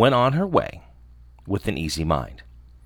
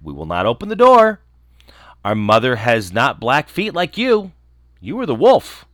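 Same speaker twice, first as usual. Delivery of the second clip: loud defiant no, pitched up at the end; kids crying out; 3 dB louder than usual. Acted. Kids spotting black paws, loud and defiant. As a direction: call out firmly at the wolf. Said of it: "the children saw them and cried".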